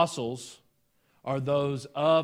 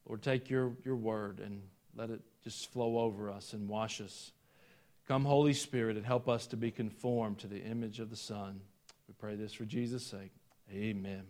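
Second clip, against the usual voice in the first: low-key, softer praying voice; prayer; 4 semitones lower, 6 dB quieter than usual. Real, not acted. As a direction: pray quietly on the congregation's behalf. Leads the congregation in prayer.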